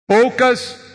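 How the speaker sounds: poucas called out high and loud; stress on poucas. Shown as a demonstration. Preacher hammers one word to the church: loud stress. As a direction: hit Poucas hard, alone. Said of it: "stresses the key word".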